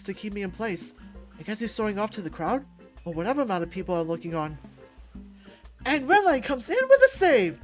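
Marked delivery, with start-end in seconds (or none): 5.9-7.6 loud, high play-by-play shout; triumphant announcer call. Acted. Redline charging in with a save, triumphant shout. Friend announces his own rescue.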